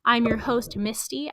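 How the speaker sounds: lightly voiced radio-style host; podcast host intro. Shown as a demonstration. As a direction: sell the welcome like a show opener. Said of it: "I'm just gonna say".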